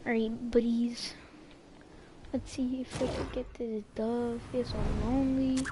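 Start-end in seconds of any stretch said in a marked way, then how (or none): 0.1-4.4 whispered, sneaking; hushed stealth whisper. Real, not acted. Sneaking in game.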